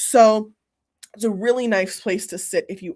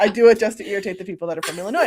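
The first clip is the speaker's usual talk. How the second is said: laughing; faster than usual. Real, not acted. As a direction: laugh while admitting the tease. Laughing about teasing Illinois people.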